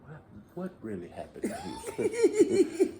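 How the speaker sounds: high, soft, slow mock therapist voice. Teasing friend plays a therapist probing about Houston, high and soft. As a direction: coax it out gently like a therapist. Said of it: "A therapist will be like".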